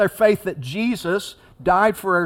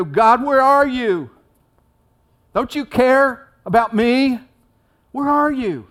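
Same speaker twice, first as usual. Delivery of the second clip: desperate cry; 7 semitones higher, 6 dB louder than usual. Acted. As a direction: call out as if abandoned in a storm. Acted desperate plea to God.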